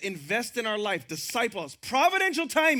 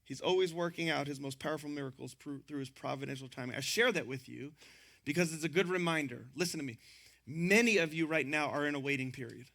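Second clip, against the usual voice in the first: softer, lower, intimate; hushed preaching; 9 semitones lower, 8 dB quieter than usual. Real, not acted. Pastor softly pressing his point on the congregation. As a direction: draw the church in close, quietly.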